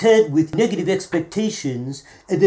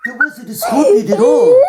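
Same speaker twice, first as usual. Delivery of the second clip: excited insistence; 7 dB louder than usual. Real, not acted. Insisting over laughter.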